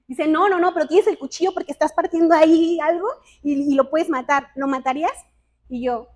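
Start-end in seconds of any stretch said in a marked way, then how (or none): 0.3-5.1 put-on quick, loud and insistent like an eager kid; eager child. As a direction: press the question, fast and louder. Hijo insiste en la pregunta. (hijo insistente, rápido y fuerte)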